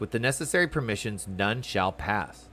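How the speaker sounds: lightly voiced haughty guard, slowing at the end; stern gate guard. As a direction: read it like a proud castle guard. Reads guard NPC lines.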